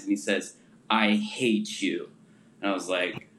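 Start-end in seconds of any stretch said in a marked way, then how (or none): 0.9-2.1 slow, deliberate delivery of a retold blow; retold blunt hatred. Companion looks him deeply in the eyes, slow retold declaration. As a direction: say it slowly, straight at him. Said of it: "looks me, like, deeply in the eyes".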